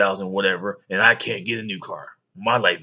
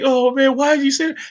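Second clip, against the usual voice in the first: put-on higher, louder whiny kid; kid complaining; 6 dB louder than usual.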